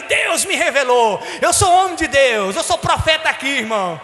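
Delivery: mock-grand preacher boast; mock prophet. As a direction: proclaim yourself a prophet, hamming it up. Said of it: "eu nem sabia se era Deus".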